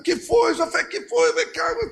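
high, hurried questions; alarmed father. Acted. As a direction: rush in worried. Noah running to son.

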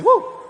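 short high whoop; quick playful hoot; demonstrated whoop. Shown as a demonstration. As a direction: show the crowd a whoop. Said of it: "Vai assim".

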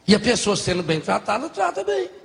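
"bem" flung up high at the end; punchline. Shown as a demonstration. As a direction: land "trata bem" with a big rise on "bem".

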